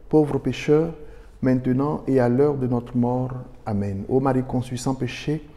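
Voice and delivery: even, level-toned Hail Mary recitation; recited prayer. Acted. Priest leading listeners in prayer to Mary, recited evenly. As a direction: pray it in a steady, contained cadence.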